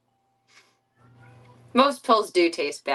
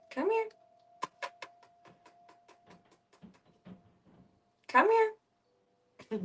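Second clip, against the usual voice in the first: high coaxing call; 5 dB quieter, much slower than usual. Real, not acted. Calling the cat to come.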